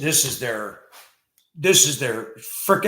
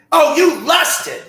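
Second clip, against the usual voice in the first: much higher, slow, loud mocking shout; mock accusing wife; 5 dB louder, much slower than usual. Mocking the Christian wife who accuses him, slow high shout. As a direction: drag out the accusation like a scolding wife.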